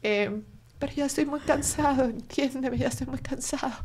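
retold gently, in a small tired voice; tender. Son thanking his mother and saying he is exhausted, tender. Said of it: "pero fue muy tierno".

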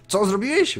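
high, loud burst of disbelief; outraged yell. A narrator's reading. Mardor learns his master leaked the plans, high outraged yell. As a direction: cry out in shock at the betrayal. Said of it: "wrzasnął Mardor".

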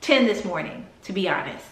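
a little tipsy after champagne. Real, not acted. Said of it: "I'm a little tipsy".

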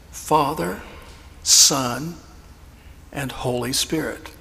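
faint, small, timid answer; weak voice. Retold or imitated. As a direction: barely get the words out. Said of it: "answered in a very weak voice".

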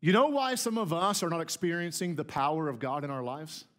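usual speaking voice

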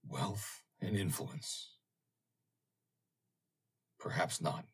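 a sceptical mutter to himself. A narrator's reading. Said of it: "Mister Meyer muttered to himself".

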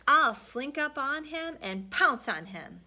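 sly cat. Acted. Cat boasts plan.

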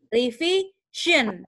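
"revision" drawn out slowly with a zh sound; slow demo of "revision"; example word. Shown as a demonstration. Teacher to students sounding out the word, very slow demo. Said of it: "Contohnya gini".

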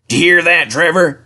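elated and lively; cried out. A narrator's reading. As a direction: call out the good news. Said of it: "cried Jem".

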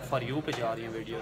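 ordinary talk

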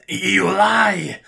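loud, high, angry character voice; hissed accusation. Acted. Alien prisoner rejecting the human's excuse, hissed back. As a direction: spit it back in outrage. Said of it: "Gregor hissed back".

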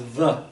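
V said as the sound "vuh"; letter sound vuh. Shown as a demonstration. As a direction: say V as its sound, not the letter's name. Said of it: "it's often pronounced V".

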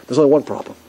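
ordinary talk, nothing marked

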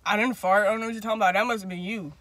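deadpan imitation of his denial; dead serious denial. Retelling him denying the fart, dead serious. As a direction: deny it with acted total seriousness. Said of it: "was dead ass serious about it".

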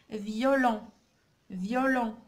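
"فيولون" low, with a clear "yo" glide; pronunciation demo. Shown as a demonstration. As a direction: model "فيولون" as "vyo-lon", word by word. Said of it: "يعني ننطقوها إيون".

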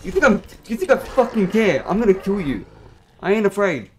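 loud, high furious taunts; enraged gamer yelling at opponent; raging yell. Real, not acted. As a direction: scream threats at the enemy.

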